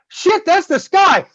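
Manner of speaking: slow, high, stunned realization; like waking up flat on your back; dazed surprise. Retold or imitated. Dazed after being knocked down.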